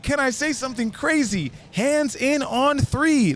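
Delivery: very high, drawn-out team cheer; hyped rallying call. Retold or imitated. Rallying new friends into a team, hyped and high. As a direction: pitch it way up and stretch the final words. Second try, which succeeds.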